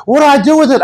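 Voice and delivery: high, urgent panicked question; the friend panicking over text mid-service. Retold or imitated.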